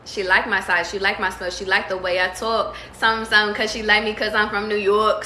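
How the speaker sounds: put-on light New York accent on the quoted lyric. Reader quoting a lyric to Morgan, light New York accent. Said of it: "I said it with a New York accent".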